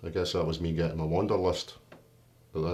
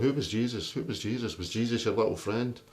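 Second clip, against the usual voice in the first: put-on English accent taunt; 4 semitones higher than usual. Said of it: "In this English accent".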